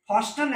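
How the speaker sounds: 'fasten' with a t; American-style fasten, t sounded. Shown as a demonstration. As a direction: pronounce the t in fasten. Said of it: "American वाली में टी लगता है". ('फास्टन', 'ट' के साथ)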